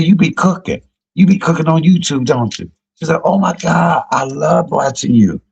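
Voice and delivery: high-pitched mock fan gushing; imitated excited fan. Girl recognizes her from YouTube, imitated excited gushing.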